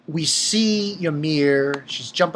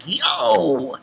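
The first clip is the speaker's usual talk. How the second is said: call out. Retold or imitated. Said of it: "I was like".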